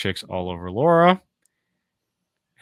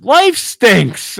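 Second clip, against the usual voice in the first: Carl; 10 semitones higher, 4 dB louder than usual. Retold or imitated. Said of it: "then he says".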